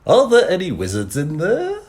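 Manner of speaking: calling out. Acted. Voice shouting from darkness.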